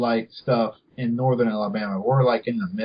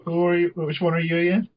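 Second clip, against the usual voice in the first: fake excitement; 5 semitones higher, slower than usual. Pretends excitement seeing family.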